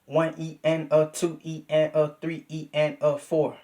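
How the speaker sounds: steady spoken subdivision count. Shown as a demonstration. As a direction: count the one E and a evenly. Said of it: "You could be like".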